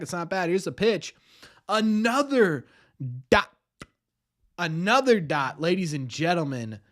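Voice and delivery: building play-by-play call, rising on another; announcer voice. Acted. Streamer calling the game for chat, in announcer voice. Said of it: "Do you like my announcer voice".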